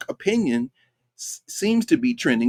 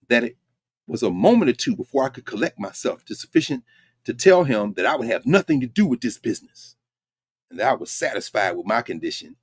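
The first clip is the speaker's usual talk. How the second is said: dramatic reading. Shown as a demonstration. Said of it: "Peter the Informer says".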